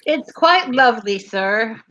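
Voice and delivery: lightly put-on British politeness; a hint of fake British accent; mock British. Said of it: "worst accent ever".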